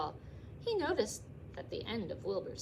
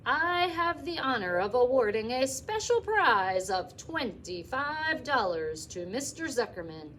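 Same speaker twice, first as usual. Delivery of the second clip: fair announcer; 4 semitones higher, 5 dB louder than usual. Acted. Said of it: "continued the loudspeaker".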